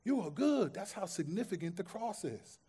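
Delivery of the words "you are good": reassuring. Retold or imitated. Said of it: "He's saying".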